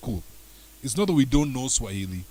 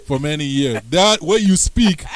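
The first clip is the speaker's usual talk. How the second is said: louder, animated pushback at a friend; excited rebuttal; 7 dB louder than usual. Real, not acted. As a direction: argue it with playful energy. Teasing rebuttal to a guest.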